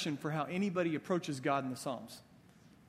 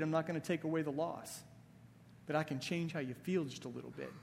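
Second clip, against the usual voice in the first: softer, tender reassurance from God; gentle voice of God; 4 dB quieter than usual. Retold or imitated. Preacher voicing God to a hurting listener, softer and tender. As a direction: soothe a hurting believer as God would. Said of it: "And God's like".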